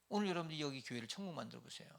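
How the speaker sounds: ordinary talk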